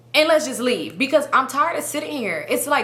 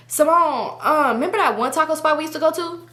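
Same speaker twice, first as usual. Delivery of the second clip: higher-pitched friend's voice; imitating friend; 6 semitones higher than usual. Friend hinting about a taco spot, imitated higher. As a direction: casually prompt her in a raised voice. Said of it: "this is her".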